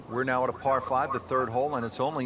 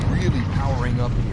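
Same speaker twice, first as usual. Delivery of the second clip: excited; 8 dB louder than usual. Acted. Drive swinging live.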